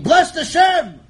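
loud, high cry of Bless Hashem; booming high proclamation; shouted blessing. A narrator's reading. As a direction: shout it from the middle of the heavens.

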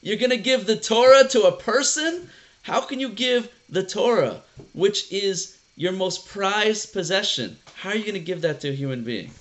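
retold indignant outburst, pitched high at first; mock outrage, stressing the words in disbelief; flipping out. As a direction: protest like you can't believe it, mildly hammed up. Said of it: "the angels started flipping out".

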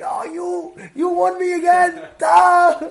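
retold angry yell. Old men quarreling over a game.

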